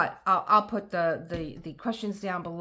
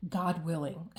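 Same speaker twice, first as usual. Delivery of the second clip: grandmother's saying. Retold or imitated. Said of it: "she would say".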